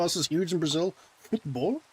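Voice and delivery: high-pitched mocking question. Mocking the chatter's Brazil claim.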